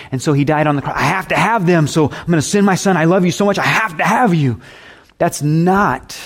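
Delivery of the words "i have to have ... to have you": mock a needy, grabbing love; possessive love voice. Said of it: "this idea that maybe God's love is that way".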